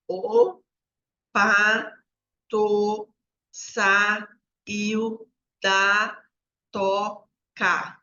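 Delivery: each syllable alone, held, with pauses between; syllable-by-syllable reading. Shown as a demonstration. Teacher showing a child's syllable-by-syllable reading habit, slow and chopped. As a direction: demonstrate halting syllabic reading, beat by beat. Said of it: "a criança a ler assim, ó".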